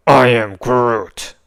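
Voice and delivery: tree creature greets the new friend; Groot voice. A narrator's reading. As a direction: stretch it out like a gentle tree.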